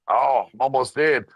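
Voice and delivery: hammed-up strained dying voice. Reviewer repeating the black hole scene, with a strained mock dying voice. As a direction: squeeze it out like the last breath.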